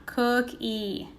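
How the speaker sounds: "Cook-E" split, the final E drawn out clearly; stressed long e. Shown as a demonstration. Teacher showing pupils the long E in cookie. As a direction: lean on the E at the end of "Cook-E". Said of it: "making that long E sound".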